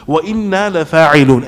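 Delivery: quick recited Arabic verse; تلاوة سريعة; Quran recitation. Shown as a demonstration. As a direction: chant the verse briskly. Reciting verse before explaining.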